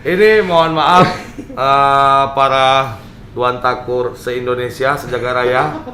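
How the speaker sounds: muffled behind a mask; talking with a mask on; through a face mask. Real, not acted. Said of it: "Ini kita pakai masker ini".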